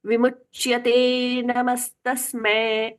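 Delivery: slow chant, नमस्तस्मै ending in a flat e; wrong e ending. Shown as a demonstration. Teacher chanting the wrong ending, slow. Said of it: "नहीं".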